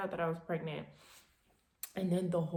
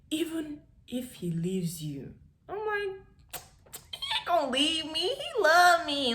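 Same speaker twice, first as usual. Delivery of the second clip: high, loud, naive insistence; naive lovestruck girl; 9 semitones higher, 4 dB louder than usual. Retold or imitated. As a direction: play her younger self, blindly in love. Mocking her naive younger self.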